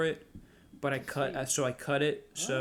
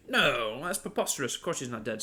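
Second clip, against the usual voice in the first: dismissive Brit. Acted. Brit answering whether the Queen is dead, dismissive. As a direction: wave the idea away as absurd.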